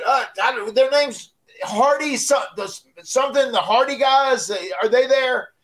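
high, halting caller voice; Sandman fumbling. Retold or imitated. Sandman on the phone fumbles for the Hardy names, high and halting.

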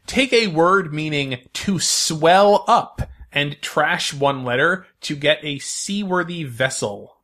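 slow, clear quiz reading; quiz host. Acted. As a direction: read the clue like a game host.

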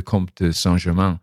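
COMTE DE SAINT-GERMAIN in French, nasal vowels; French pronunciation. Shown as a demonstration. Recalling the immortal count, name said in French.

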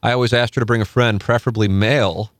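reading a listener's story aloud. Acted. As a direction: read the submitted story with a bright lift. Reads erotic story aloud.

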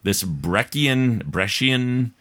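measured, lilting read-aloud; listener email read-aloud. A narrator's reading. Host reading Kendra's email to listeners, measured read-aloud. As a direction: read the letter out for an audience. Rereads email, stumbling on word.

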